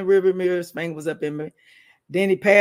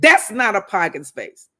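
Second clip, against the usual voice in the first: rude and mean; 7 dB louder than usual. Retold or imitated. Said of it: "Really rude and mean".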